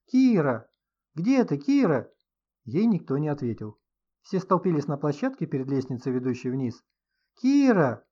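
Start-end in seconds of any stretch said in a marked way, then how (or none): 0.1-2.1 louder calling out in despair; desperate call. A narrator's reading. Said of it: "отчаянно закричала". 7.4-8.1 high, loud desperate call; desperate scream. A narrator's reading. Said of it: "ещё раз отчаянно крикнула Инга".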